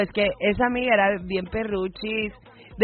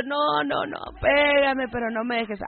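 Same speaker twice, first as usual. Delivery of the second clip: understated, drawn-out plea; mock tearful pleading; 4 dB quieter than usual. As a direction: imitate a tearful wife begging, only lightly acted. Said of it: "la mujer entró llorando".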